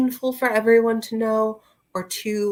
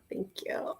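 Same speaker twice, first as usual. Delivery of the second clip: whispered thanks; 11 dB quieter than usual. Real, not acted. Thanking the chat again in a whisper. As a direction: Thank you whispered, much softer.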